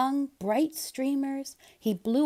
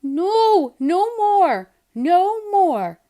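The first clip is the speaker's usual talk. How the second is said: high, loud yell of refusal; 9 semitones higher, 10 dB louder, much slower than usual. Acted. Seymour refusing Kitten's dress, yelling. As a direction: shout it out, fed up. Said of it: "yelled Seymour".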